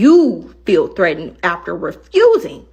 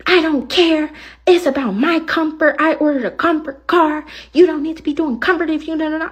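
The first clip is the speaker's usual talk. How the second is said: higher, sharp mocking of her yelling; mock yelling passenger; 8 semitones higher than usual. Driver mimicking a passenger yelling about comfort, mock angry. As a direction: throw her rant back at the listener. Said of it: "why are you yelling at me".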